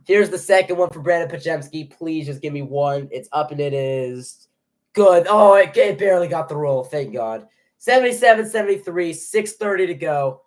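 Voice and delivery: animated free-throw call with bursts of relief; live play-by-play. Real, not acted. Streamer calling a tense free throw for viewers, live play-by-play.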